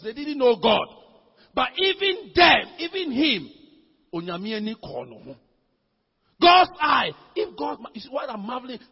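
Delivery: emphatic preacher, key words punched loud; sermon delivery rising to shouts; forceful preaching. Acted. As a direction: preach it with bursts of force, stretching the big words.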